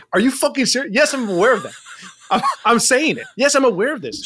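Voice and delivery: exasperated. Acted. Bristles at comment on his tone.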